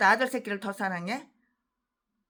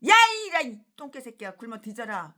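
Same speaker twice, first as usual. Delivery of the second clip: mock scornful retort; 5 dB louder than usual. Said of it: "그러면".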